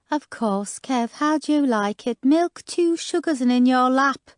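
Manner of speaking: a sweet Black Country jab with a smile; honeyed Black Country offer; sweet Black Country accent. Acted. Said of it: "sweetly, in her strong black country accent".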